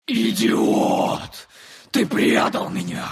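very high monster roar; roaring creature. Acted. The creature roars at the narrator, furious. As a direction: roar in fury. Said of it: "взревела она".

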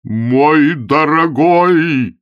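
very slow, high, loud joyful cry. A narrator's reading. Bishop overjoyed at Augustine, crying out. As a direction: pour out delight and gratitude. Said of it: "вскричал епископ".

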